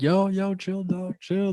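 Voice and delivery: a hammed-up high 'chill, dog'; high-pitched calm down. Hushing his rude friend, high mock voice. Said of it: "And I'm like".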